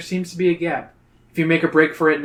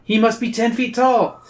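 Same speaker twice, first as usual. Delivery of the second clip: awed companion; 7 semitones higher than usual. A narrator's reading. Reader voices an awed companion.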